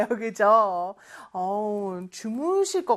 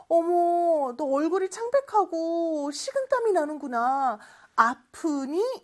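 acted concern; 5 semitones higher than usual. Acts out noticing someone looks sick.

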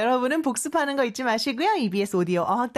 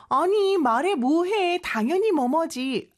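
obvious answer; 7 semitones higher than usual. Acted. Teacher voicing an example reply, obvious answer. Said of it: "이렇게 표현한 거예요".

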